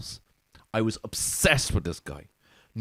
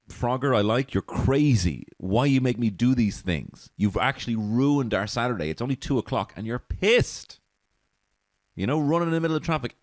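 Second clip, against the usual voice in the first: exasperated rant; 5 semitones higher than usual. Acted. Scolding Frogger for ruining the Saturday, exasperated rant. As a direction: tell Frogger off like a fed-up friend.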